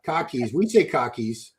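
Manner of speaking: "cockies" said the Boston way, with no r; low, matter-of-fact Boston "cockies"; Boston pronunciation. Shown as a demonstration. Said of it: "my theoretical Boston accent".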